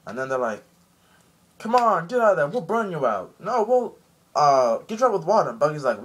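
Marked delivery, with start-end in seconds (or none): 1.6-5.5 high, louder mock threats; bully it out of the shell; threatening guards. Impel Down guards threatening the snail, high mock threats.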